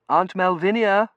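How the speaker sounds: high, slow call to aunt; concerned niece. A narrator's reading. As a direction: raise the pitch and draw out the name. Niece calling the fainted aunt.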